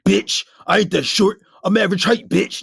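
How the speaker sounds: loud, heated comeback; overreacting angrily. Shown as a demonstration. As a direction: act out a wounded, too-loud reaction. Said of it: "don't ever react like that".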